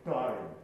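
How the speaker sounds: ダイン sounded fully as a tone; clear ダイン. Shown as a demonstration. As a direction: give ダイン its whole sound. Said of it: "音として言う". (音として響かせるダイン)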